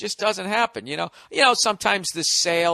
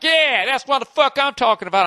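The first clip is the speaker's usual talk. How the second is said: redneck cheer; 6 semitones higher than usual. Retold or imitated. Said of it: "and be like".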